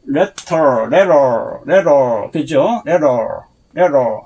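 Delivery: letter said as 레로, flapped middle; letter demo. Shown as a demonstration. Teacher modelling letter for Korean learners. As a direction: say letter like 레로 with a quick flap. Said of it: "여기 한번 보면은".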